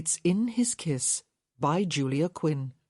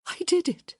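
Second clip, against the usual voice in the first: excited; 13 semitones higher, 3 dB louder than usual. A narrator's reading. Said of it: "she said again".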